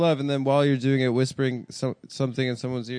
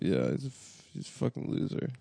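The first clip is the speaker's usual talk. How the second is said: whispered insult; 6 semitones lower, 11 dB quieter than usual. Real, not acted. Dismissive low muttered insult.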